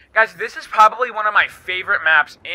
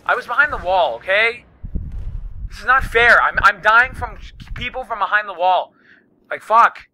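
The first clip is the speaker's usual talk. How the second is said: angry complaint; 4 semitones higher than usual. Real, not acted. Player dying through walls rants angrily at it. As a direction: vent at the unfair deaths. Keeps dying behind the wall.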